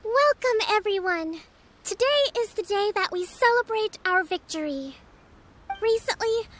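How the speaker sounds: steady, public address to the crowd; rally the troops with measured dignity; formal speech. Acted. Leader addressing her army at the victory feast, formal speech. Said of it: "give a quick speech".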